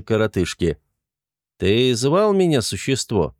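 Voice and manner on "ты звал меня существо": stern. Acted. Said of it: "строго спросил он".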